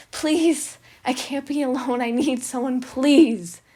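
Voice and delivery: loud, high pleading cry; beg, near breaking; desperate begging. Acted.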